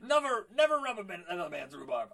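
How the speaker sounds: high loud Joker voice; Joker impression. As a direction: camp it up like the Joker. Quoting Joker line in voice.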